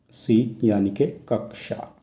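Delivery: कक्षा said slowly and clearly, the क्ष fully sounded; correct pronunciation. Shown as a demonstration. Teacher modelling the right pronunciation of कक्षा for the class, slow and clear. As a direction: lay out कक्षा syllable by syllable. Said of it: "ये होता है यहाँ पर इसका शुद्ध उच्चारण".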